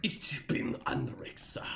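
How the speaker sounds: breathy joke whisper in mock German; unvoiced half-laughing sexy German voice. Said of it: "a sexy German voice".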